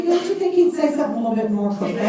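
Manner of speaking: can't keep the laugh out of it. Real, not acted. Telling audience about God's message, laughing fast.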